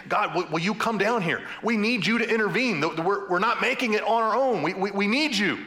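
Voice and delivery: a touch of urgent pleading; people crying out. Retold or imitated. The people ask God to come down, crying out. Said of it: "it's the people actually crying out".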